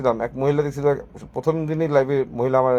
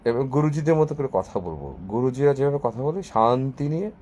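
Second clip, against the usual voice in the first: guruji; 4 dB quieter than usual. Pretend. Showing viewers how gurus talk, lightly voiced guruji. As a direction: stretch the words out serenely. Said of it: "টেনে টেনে শান্তি নিয়ে কথা বলবো".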